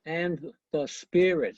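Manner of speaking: slow, deliberate stress on "And" and "spirit"; two accents. Shown as a demonstration. Teacher proving the downbeat to students, two accents on "And" and "spirit". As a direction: lean on "And" and the first syllable of "spirit". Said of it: "there are two accents".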